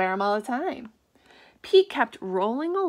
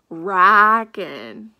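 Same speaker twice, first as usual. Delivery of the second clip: excited shout; 3 semitones lower, 12 dB louder than usual. Acted. Alligator delighted.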